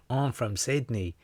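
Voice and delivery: hammed-up, drawn-out Australian accent. Host doing Australian on a viewer's request, mock Australian accent. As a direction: put on a broad mock Australian twang. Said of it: "do Australian".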